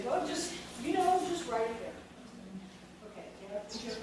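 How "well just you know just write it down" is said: mocking lazy answer. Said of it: "But don't just say".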